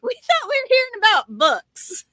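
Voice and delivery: high, put-on complaining listener; mocking whiny voice. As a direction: whine it like a disappointed fan. Listeners complaining about the topic.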